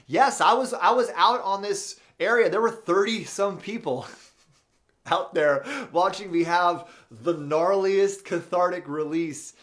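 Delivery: loud, high, laughing through the words; giggling while admitting the spectacle; laughing loudly. Real, not acted. Laughing as she tells viewers thirty people watched, loud and high. Laughing answer about public catharsis.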